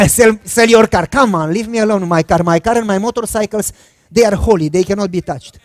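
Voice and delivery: loud laughing protest; hammed-up refusal to give up the car; laughing, loud mock outrage. Mock argument with himself, laughing.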